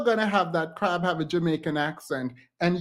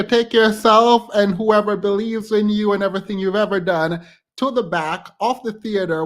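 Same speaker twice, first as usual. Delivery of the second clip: loud rant; 4 semitones higher, 6 dB louder than usual. Real, not acted. Continues ranting at critic.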